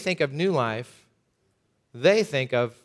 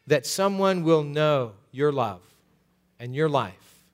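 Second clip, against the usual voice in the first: measured, earnest closing prayer, unhurried; 2 semitones lower than usual. Acted. Pastor closing the sermon, praying over the church in a steady earnest prayer.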